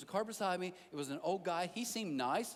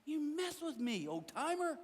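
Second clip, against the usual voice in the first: mock challenge; 9 semitones higher than usual. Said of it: "I'm like".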